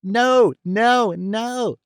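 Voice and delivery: put-on high, frantic old man's no; shrieked. A narrator's reading. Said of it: "shrieked the other".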